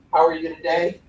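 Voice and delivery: disinterested question with no rise at the end; rhetorical question tone. Shown as a demonstration. Coach showing how you lose their interest, uncaring question. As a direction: ask it low and uninvolved, as if not caring. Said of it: "in that tone of voice".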